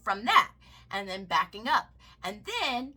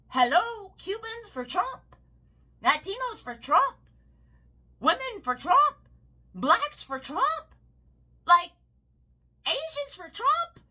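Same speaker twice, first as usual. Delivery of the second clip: mocking slogans; 9 semitones higher, 3 dB louder than usual. Mocking pro-Trump slogans.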